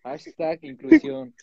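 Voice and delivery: high, slow hashtag call; drawn-out high influencer slogan; hammed-up influencer.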